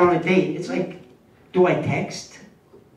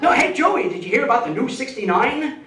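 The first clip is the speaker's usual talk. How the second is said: eager pitch; 5 semitones higher than usual. Retold or imitated. Friend pitching new sex move.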